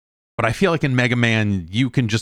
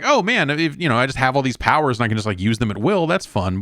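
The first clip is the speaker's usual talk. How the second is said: high, quick, mock-excited gush; recalling initial excitement, pitched up and rushing; retold excitement; 5 semitones higher than usual. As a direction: gush like an eager first-time player. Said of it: "at first I was excited".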